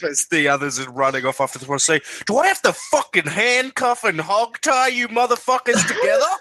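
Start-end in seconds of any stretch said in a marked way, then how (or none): 2.3-6.3 high, heated scolding; exasperated acted outburst. Player grabs Rep as others run off, exasperated high outburst. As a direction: berate them in a raised pitch. Player's character berates runaway party members.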